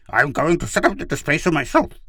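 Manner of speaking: high, angry declaration; snarling defiance. A narrator's reading. Pid vows to do it himself, snarling. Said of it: "he snarled".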